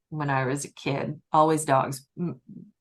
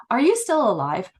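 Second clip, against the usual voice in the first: higher-pitched incredulous question; mock disbelief; 6 semitones higher, 4 dB louder than usual. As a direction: ask it as if amazed by the sight. Greeting old cat in disbelief.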